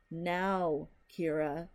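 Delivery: the sternest father voice; stern volcano man voice. Acted. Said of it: "his sternest volcano man voice".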